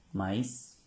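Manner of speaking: maïs said slowly, stress on the final i; French maïs. Shown as a demonstration. Teacher to class, modelling "Maíz" in French. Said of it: "se pronuncia maíz".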